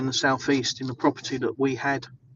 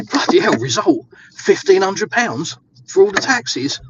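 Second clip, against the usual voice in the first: delighted relief; 6 semitones higher, 8 dB louder than usual. Retold or imitated. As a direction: retell the joyful shock of a tiny bill. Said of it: "So I was like".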